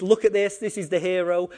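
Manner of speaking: loud proud proclaiming; mock crowd cheering the hero. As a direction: hail him as the hero.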